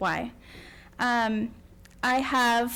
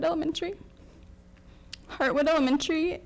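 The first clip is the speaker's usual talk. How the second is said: voice breaking; 5 semitones higher, faster than usual. Real, not acted. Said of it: "I spent most of my time crying".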